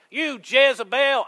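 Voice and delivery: put-on high, drawn-out southern-accent name-calling. Preacher voicing the insult he hears in his brain, southern accent. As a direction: throw it out loudly in a slow southern accent. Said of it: "I always hear that with a southern accent".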